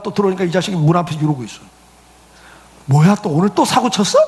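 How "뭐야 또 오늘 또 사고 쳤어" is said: louder, abrupt mock challenge; a father snapping at his son; sharp fatherly demand. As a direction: confront the son with a sharp question. Father confronts son again.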